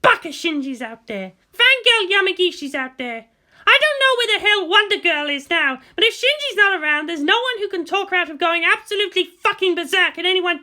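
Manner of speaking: lightly voiced determined commander, urgent; a grim officer pushing through pain; Misato, tense. Narrator voicing the wounded commander to the leaders, urgent.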